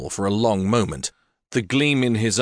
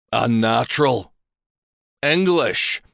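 disgusted clansmen; 3 semitones higher, slower than usual. A narrator's reading. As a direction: spit out the words in scorn. Men mutter about her.

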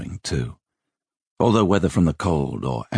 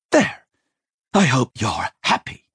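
put-on high, put-out older woman; wounded scolding; flustered reproach; 8 semitones higher than usual. A narrator's reading. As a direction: blame the boy, upset and pitched up. Flustered Rachel reproaches Simon.

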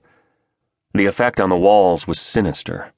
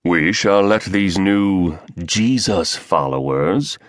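sneering; slower than usual. Acted. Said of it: "he sneered at the term".

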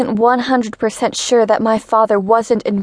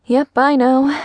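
loud; 3 semitones higher than usual. Acted. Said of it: "Louise's voice was still loud".

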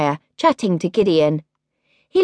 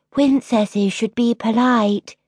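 prim sister; 5 semitones higher, slower than usual. Acted. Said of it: "said her older sister".

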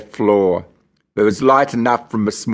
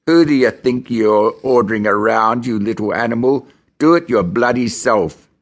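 Hollywood crim voice. Retold or imitated. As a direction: sneer like a film tough guy. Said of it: "in my best Hollywood crim voice".

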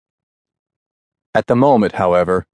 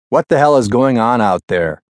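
loud angry yell; screaming; 3 semitones higher, 4 dB louder than usual. Acted. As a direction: yell it down the radio. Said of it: "Gossett screamed".

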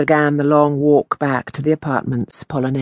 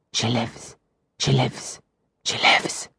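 soft, fading to a whisper; 4 semitones lower, 6 dB quieter than usual. Acted. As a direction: breathe the words like a heartbeat. Heart beats the words.

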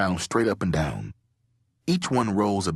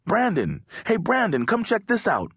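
high-pitched call to a friend; 12 semitones higher than usual. A narrator's reading. Lewis calls his friend to the hidden pathway, calling out. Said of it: "Lewis yelled".

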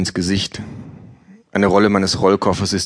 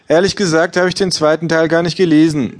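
hohes, lautes gleichgültiges Ja; Buchhändlerin; 9 semitones higher, 4 dB louder than usual. Acted. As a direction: ein schrilles Ja ohne Interesse. Bookseller voiced high. (Verkäuferin antwortet hoch und laut gleichgültig)

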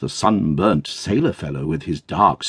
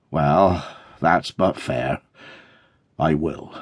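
carrier, subdued; 6 semitones lower, 3 dB quieter, slower than usual. Acted.

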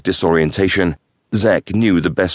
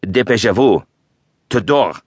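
barked French orders, raised; yelling French captor; 4 semitones higher than usual. Acted. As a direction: yell it at the captive, pushing him. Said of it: "yelling even louder than before".

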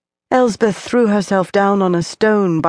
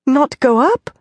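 high, startled disbelief; quick disbelief; 8 semitones higher, 3 dB louder than usual. A narrator's reading. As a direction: snap back in alarm. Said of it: "she said quickly".

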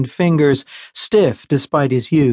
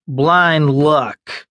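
put-on drunken slurred words. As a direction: slur it like a drunk. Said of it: "slurred Dodds".

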